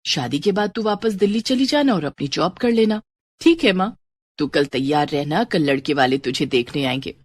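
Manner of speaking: mother telling her daughter about a match, lightly voiced.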